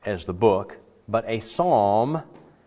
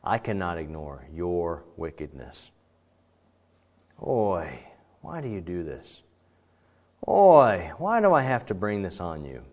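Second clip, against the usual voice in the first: regretful God; 5 semitones lower than usual. Acted. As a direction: sigh it as a pained father. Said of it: "let's put that personally".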